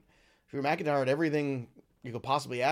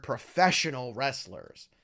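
professional wrestlers said slowly with weight on professional; stress on professional; 2 semitones lower, slower than usual. Shown as a demonstration. Podcast host to his audience, stressing professional wrestlers slowly. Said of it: "I wanna emphasize the word".

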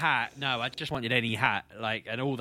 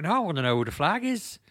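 Pab impression; 6 semitones higher, 4 dB louder than usual. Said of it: "when you do your Pab impression".

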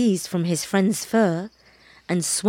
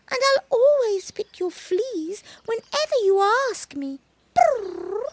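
very high, whimpering kitten plea; begging kitten. Acted. Baby cat begs the monkey, high and whimpering. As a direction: beg like a desperate little kitten.

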